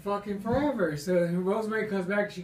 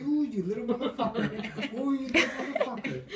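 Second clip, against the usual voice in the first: mother calling; 4 semitones higher than usual. Retold or imitated. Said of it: "that's his mother calling him".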